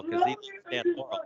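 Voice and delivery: Stan Laurel. Retold or imitated. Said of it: "What about Stan Laurel?".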